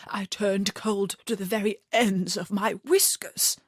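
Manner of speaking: breathy, scared whisper; frightened whisper. A narrator's reading. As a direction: whisper it trembling to the queen. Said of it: "in a frightened whisper".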